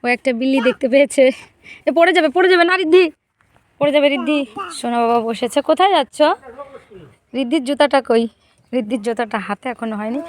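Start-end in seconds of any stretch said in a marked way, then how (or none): 1.9-4.4 quick, loud, higher warning call; alarmed warning. Real, not acted. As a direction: catch her before she falls. Child about to fall.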